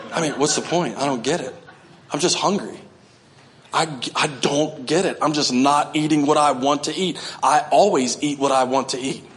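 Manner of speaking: soft, laughing mock complaint. Imitating a whining faster.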